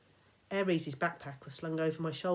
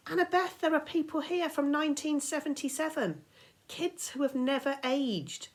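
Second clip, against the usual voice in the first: higher, pressing voice slowing at the end; urgent warning; 10 semitones higher, 4 dB louder than usual. Acted. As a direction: alarm her with the facts. Percy urgently warns her.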